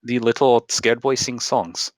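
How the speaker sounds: put-on slow Russian-accented phrasing; measured put-on Russian accent. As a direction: speak as a Russian barkeep, slowly. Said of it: "the accent's just going away".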